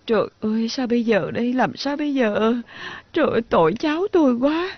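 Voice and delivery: wailing in despair, ending in crying; plaintive crying, rising at the end; tearful lament. Acted. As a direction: lament as if everything is lost. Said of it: "con đừng khóc mà".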